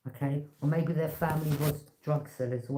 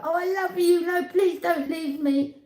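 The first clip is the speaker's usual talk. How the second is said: mock pleading girl; 12 semitones higher, 4 dB louder than usual. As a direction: whine it like a clingy girl begging him to stay. Mocks naive girl pleading.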